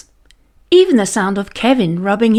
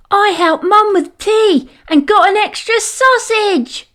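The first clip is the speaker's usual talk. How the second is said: put-on high boy's voice, proud but only mildly raised; proud shout; 11 semitones higher than usual. A narrator's reading. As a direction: boast like a small boy. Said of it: "shouted a proud Paolo".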